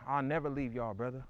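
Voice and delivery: low, softened promise to brothers; sincere vow. Real, not acted. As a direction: promise it quietly but voiced. Vow repeated, first take fuller voiced.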